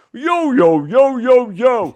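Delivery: high-pitched, insistent interrupting yos; Tom Brokaw. Retold or imitated. Anchor stops the guest mid-segment, high mock interruption. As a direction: cut in with a mock protest, pitched well up. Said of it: "Tom Brokaw stopped me and goes".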